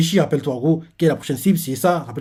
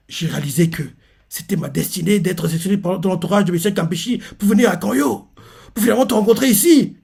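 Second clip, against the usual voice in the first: mock lovelorn line rising higher; put-on emotion; 4 semitones higher than usual. Reader imitates the suitor charming Ochu, feigning emotion. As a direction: build it into a sweet, higher plea. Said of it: "il fait l'air ému, euh, l'air".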